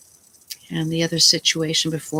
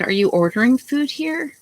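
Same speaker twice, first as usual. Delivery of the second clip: retold angry outburst; 6 semitones higher than usual. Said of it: "I got really pissed off".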